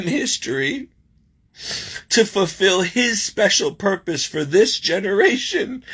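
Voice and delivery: slow, deliberate reading of an inspirational message; heartfelt reading aloud. Real, not acted. Reading God's message from the card to viewers, slow and earnest. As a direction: read it through slowly, keeping composed.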